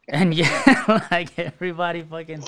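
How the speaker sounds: talking through a laugh; real amusement bubbling into the words. Real, not acted. Telling friends about the family's scare, laughing.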